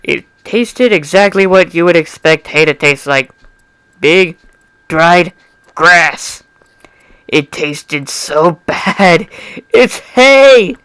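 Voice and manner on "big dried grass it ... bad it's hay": louder, higher laughing complaint; amused disgust. Acted. Amused disgust tasting hay.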